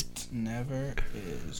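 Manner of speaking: whispered. Real, not acted. Whispered slow quip.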